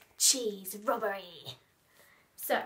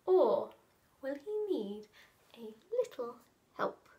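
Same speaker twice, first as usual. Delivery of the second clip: put-on animated children's blurb reading; story narration. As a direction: read it with lively swoops and suspenseful pauses. Reads the blurb aloud.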